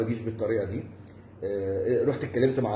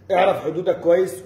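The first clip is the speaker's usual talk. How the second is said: louder stern warning; angry warning; 3 semitones higher, 5 dB louder than usual. Real, not acted. Telling the rival to know his limits, angry. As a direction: put him in his place.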